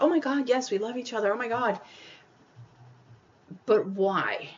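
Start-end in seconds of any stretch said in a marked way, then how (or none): 0.0-1.8 mock gushing. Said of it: "They're like".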